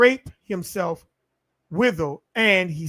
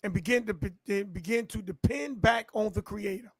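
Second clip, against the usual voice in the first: sudden hush; 8 dB quieter than usual. Acted. Sermon drops after climax.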